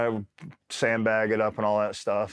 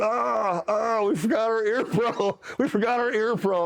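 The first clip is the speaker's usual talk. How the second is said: much higher, laughing mock shout; deafened half-shout; 11 semitones higher than usual. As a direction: yell like your ears are still ringing. Deafened soldiers after rocket blast.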